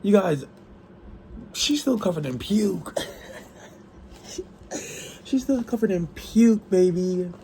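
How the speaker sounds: high, laughing squeal of disbelief; cracking up over a scene in the book. Real, not acted.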